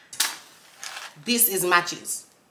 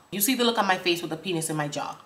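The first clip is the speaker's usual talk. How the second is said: ordinary talk, nothing marked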